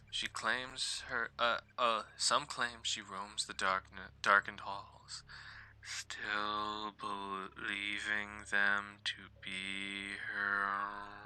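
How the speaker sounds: slow, spooky ghost-story telling; creepy storyteller voice. Acted. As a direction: draw it out like a campfire tale. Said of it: "Get the creepy voice in".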